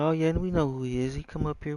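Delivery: put-on chatter of people in the know; imitated know-it-alls. Mimicking people claiming to know him.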